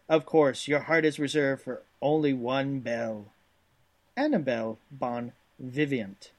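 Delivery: animated, swinging manual narration in a put-on accent; hammy storytelling read. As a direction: sell it like a hokey Southern narrator. Reads game text in character voice.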